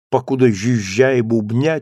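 ordinary delivery, nothing marked

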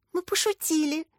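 high, small squeaky voice; a timid, high squeak. A narrator's reading. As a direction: squeak it out guiltily. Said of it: "пискнул Лёнька".

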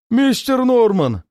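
high, loud, slow roar. A narrator's reading. Drunk servant roaring to his master, slow loud bellow. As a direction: draw out the name in a bellow. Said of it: "заревел негр".

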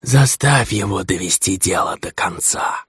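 put-on slow, stern old drow voice; old commanding elder. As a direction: cut in with ancient authority. Old drow gives an order.

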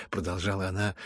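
usual speaking voice

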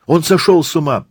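high, aghast exclamation; appalled outcry. Acted. Mother reacts to the crazy decision, appalled. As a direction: cry out in alarmed disbelief. Mother clutches her head, outraged.

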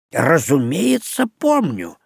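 put-on slow, offended old scholar; lightly voiced huffy professor; indignant professor. Ghost professor, offended at being asked if he remembers, replies indignantly. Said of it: "возмутился профессор".

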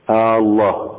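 آه الله with the opening hamza stretched into a long آه; drawn-out hamza. Shown as a demonstration. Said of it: "وألا يمد همزة الجلالة". (آه الله بمد الهمزة كأنها استفهام)

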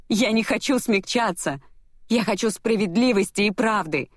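high, insistent retort; indignant demand. A narrator's reading. Heroine demanding justice from her enemy, indignant. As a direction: declare it with controlled anger.

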